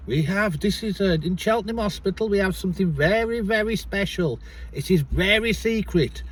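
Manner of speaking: attempted Indian accent. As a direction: imitate an Indian doctor confiding a secret. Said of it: "He was a bit Indian".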